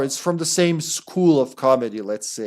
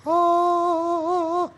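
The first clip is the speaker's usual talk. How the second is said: startled shout. Real, not acted. Sudden scare in game.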